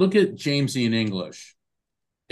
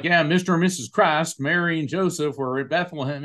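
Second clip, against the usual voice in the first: put-on Southern accent; 4 semitones higher, faster than usual. Mocking people who think Christ is a surname, in a Southern accent. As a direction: poke fun at believers in a Southern accent. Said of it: "I don't mean to affect a Southern accent".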